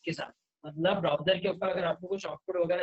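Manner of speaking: choppy broken audio; glitchy robotic call. Real, not acted. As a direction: voice dropping out mid-sentence. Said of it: "आपकी आवाज अटक रही है।". (टूटती आवाज़)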